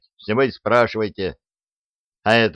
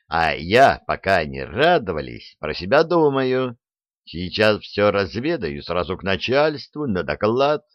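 usual speaking voice

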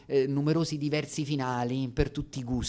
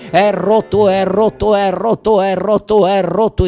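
louder, repeated cries of è rotto; mock-tragic lament, louder each time; hammed-up anguish; 7 semitones higher, 17 dB louder than usual. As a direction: wail è rotto over and over. Repeated cries of a broken heart.

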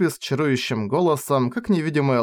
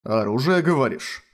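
playful teasing repeat. Acted. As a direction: tease the word back. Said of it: "Повторил я ради забавы".

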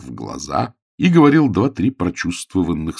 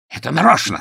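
raised, higher-pitched outcry; crying out; 6 semitones higher than usual. A narrator's reading. Pickering in a fit of triumph, crying out. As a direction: cry it out, moderately raised. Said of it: "вскричал он".

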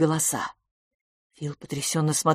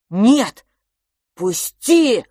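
loud high barked refusal; boy snarling at his twin to let go; 5 semitones higher, 8 dB louder, much slower than usual. Acted. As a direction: snap it out, furious. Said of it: "рявкнул Франциск".

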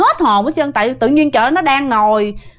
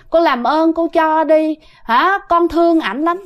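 soft, coy plea, voice a little higher; a possessing spirit begging sweetly; gentle, coaxing ghost voice; 4 semitones higher than usual. Retold or imitated. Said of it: "nói nhẹ nhàng lắm nghe".

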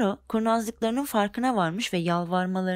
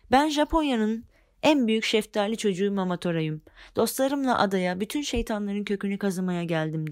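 mild shout. Acted. Momotaro announces himself to the devils, mild proud shout. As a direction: call out your name bravely but lightly. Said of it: "diye bağırmış Momotaro".

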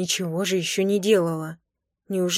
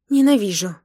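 louder playful outcry; mock angry outburst; 6 dB louder than usual. Wife crying out at teasing husband, louder, mock angry. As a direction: throw it at him, half-furious.

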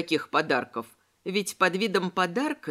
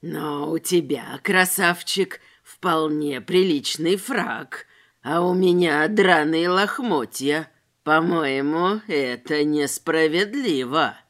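sneering tramp; 5 semitones lower, 4 dB louder, slower than usual. A narrator's reading. Tramp justifies robbery.

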